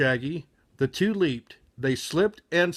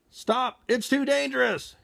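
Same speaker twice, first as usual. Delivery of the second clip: mild yell; 8 semitones higher than usual. Acted. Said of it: "yelled, shouted Todd".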